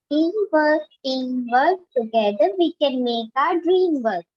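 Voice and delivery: singsong schoolroom recital, pitch rising and falling; poem recitation. Shown as a demonstration. Student repeating a poem for the teacher, singsong recitation. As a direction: recite each phrase in a measured lilt. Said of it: "please recite again".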